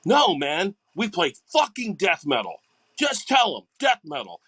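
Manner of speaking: a touch of annoyed correction; irritated retort. Retold or imitated. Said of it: "I'd be like".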